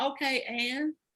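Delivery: mock casual, unbothered voice. Retelling a friend's reply about the shooting: imitating a nonchalant reply.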